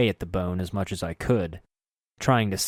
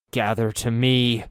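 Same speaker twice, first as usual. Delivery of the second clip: hoarse guttural voice; 3 semitones higher, 3 dB louder than usual. Acted. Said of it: "in my hoarse guttural voice".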